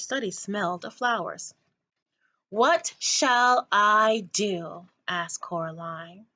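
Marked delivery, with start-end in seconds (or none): 2.5-4.9 slow drawn-out bored whine. Acted. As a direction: drag it out, bored. Bored child asking.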